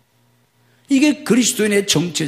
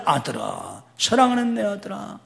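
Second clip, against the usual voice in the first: God answering tenderly; 3 dB quieter than usual. Acted. A hint of God tenderly answering his child. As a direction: answer softly like a loving father. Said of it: "하고 대답해 주시는데".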